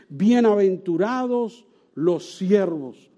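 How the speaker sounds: slow, solemn reading of Jesus' words; measured Bible recitation; scripture reading. Acted. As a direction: read it deliberately, weighing each phrase. Reads Scripture quote slowly.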